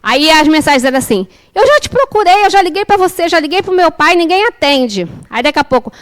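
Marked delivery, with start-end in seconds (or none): 1.5-5.1 mildly higher, complaining run-on; imitated exasperated son. Mother reads out her son's worried texts, mildly exasperated. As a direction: list failed attempts like a fed-up teenager.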